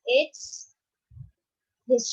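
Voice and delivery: mild snake hiss; a hint of snake hiss; hissing snake sound. Shown as a demonstration. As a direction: lean into the hiss. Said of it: "what is the sound".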